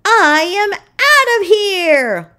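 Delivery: high, loud, slow panicked yowl. A narrator's reading. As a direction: bolt in a fright. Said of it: "Flossie yowled".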